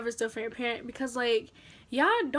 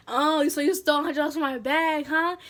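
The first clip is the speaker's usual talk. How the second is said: lightly imitated Haitian parent; 3 dB louder than usual. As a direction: confront the child with a hint of Haitian accent. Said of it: "In a Haitian voice".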